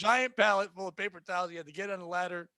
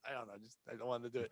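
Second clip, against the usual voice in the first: much lower and softer, backing down; sheepish mumble; 8 semitones lower, 11 dB quieter, faster than usual. Retold or imitated. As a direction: mumble it like you regret speaking.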